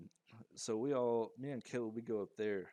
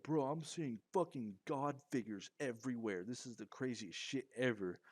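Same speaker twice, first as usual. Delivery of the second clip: higher, mildly raised mock yell; retold yelling; 4 semitones higher than usual. Telling Caleb what he sees, in a retold unwitting yell. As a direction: blurt it in amazement, pitched up. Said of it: "don't quite realize how loud I'm talking".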